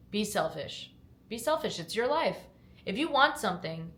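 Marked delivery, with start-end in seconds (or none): 1.3-3.9 pep talk. Shown as a demonstration. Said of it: "I'm motivating myself over here".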